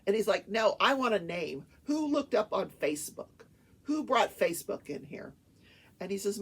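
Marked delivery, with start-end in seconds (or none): 0.5-5.3 mildly irate, forceful questioning; retold insistent judge. Judge grilling defense lawyer, mock insistent. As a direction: imitate a judge pressing hard for a name.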